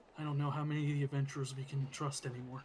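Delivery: glum, defeated, downcast character voice. Voicing a character who turns to Dur and speaks: dejected NPC voice. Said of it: "kinda looks kinda dejected as he says it".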